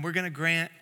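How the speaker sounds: DJ announcement. Retold or imitated. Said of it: "the D Js do this every single time".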